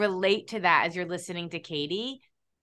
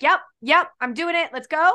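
higher and louder, eager mock yes; 7 semitones higher, 6 dB louder than usual. Host imitating a client who jumps right in, excited. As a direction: bounce in with a quick yes. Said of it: "where you're like".

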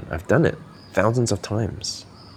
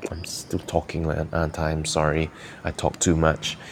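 self-deprecating demo; 5 dB quieter than usual. Shown as a demonstration. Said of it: "exactly the same words I said before".

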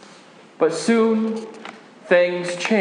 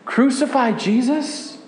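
higher and hushed, a horrified question; stunned disbelief; 4 semitones higher than usual. Acted. Disciple echoing the crowd's cry in horror, hushed disbelief. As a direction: repeat the words as if you can't believe them.

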